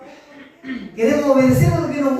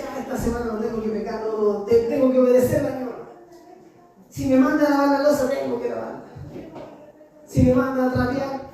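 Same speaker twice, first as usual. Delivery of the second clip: put-on eager boy. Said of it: "yo decía".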